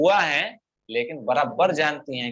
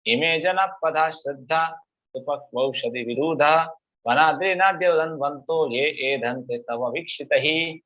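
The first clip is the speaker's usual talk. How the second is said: Sanskrit verse recitation. Acted. Teacher reciting Kunti's prayer to students, measured chant. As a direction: recite the verse evenly, lingering on long vowels.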